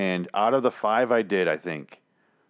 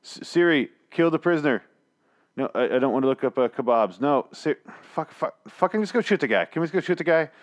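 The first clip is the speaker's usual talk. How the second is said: executioner bossing Siri; 4 semitones higher than usual. Acted. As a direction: bark orders at a useless voice assistant. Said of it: "here's my impression of an executioner now".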